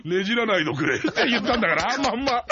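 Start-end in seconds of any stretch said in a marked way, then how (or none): 0.1-1.0 laughing. Retold or imitated. Quotes Enraku, laughing.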